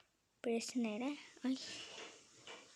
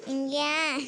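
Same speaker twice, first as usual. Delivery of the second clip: seslenerek; 3 semitones higher, 6 dB louder than usual. Real, not acted. Karaktere seslenir.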